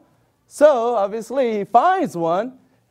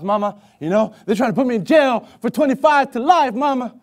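pleading jailed son. Retold or imitated. Voiced begging prisoner to mother.

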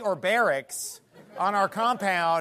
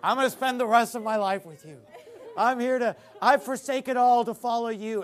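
louder mock vow through laughter; amused, louder retelling of an odd pledge; laughing imitation; 2 semitones higher, 4 dB louder than usual. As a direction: laugh as you repeat the strange visitor's words. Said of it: "Those are his exact words".

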